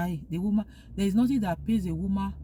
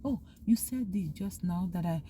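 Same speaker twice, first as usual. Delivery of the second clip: soft apology; 2 semitones lower, 4 dB quieter than usual. Acted. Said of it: "You just apologize".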